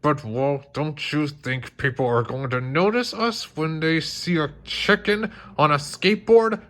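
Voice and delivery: high strained grumble rising at the end; barely holding back anger; growled. Acted. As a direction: Bob growling about the chicken on a skateboard. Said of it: "growled Bob".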